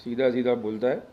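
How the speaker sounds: Mumbai street-slang swagger; tapori style. Pretend. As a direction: talk like a cocky Bombay tapori. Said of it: "अपन टपोरी भाषा में बोलेगा".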